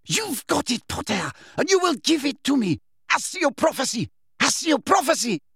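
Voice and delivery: high-pitched, frantic witch voice; terror behind anger. A narrator's reading. Witch summoning a lost prophecy, frantic anger. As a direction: demand it high and desperate. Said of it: "hear the terror behind the anger".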